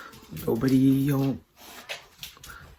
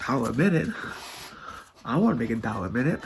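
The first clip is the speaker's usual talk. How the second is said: Brer Bear; faster than usual. Acted. Bear answers Rabbit's dollar-a-minute boast, lightly voiced eager question. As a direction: echo it back as a question, tune swinging up. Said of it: "Brer Bear goes".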